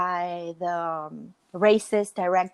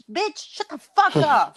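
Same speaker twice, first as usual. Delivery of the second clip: laughing mock snap; 7 semitones higher, 6 dB louder than usual. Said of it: "And I was like".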